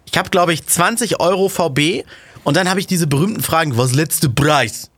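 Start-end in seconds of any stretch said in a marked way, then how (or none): 3.8-4.9 slow, drawn-out mock buyer voice; mocking the haggling buyer's clipped German; broken-German haggler. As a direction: drag out each word like a pushy haggler. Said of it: "Die muss man auch leider in der Betonung sprechen".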